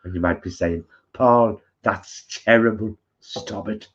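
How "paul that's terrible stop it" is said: put-on doing Adam's accent. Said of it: "I'll be doing your accent though".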